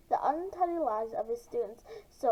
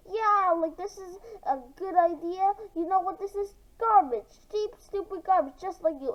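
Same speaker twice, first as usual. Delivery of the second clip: angry insult; 5 semitones higher than usual. Acted. Greg trashing Mara's book to her face, angry. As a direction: tear into her work with contempt.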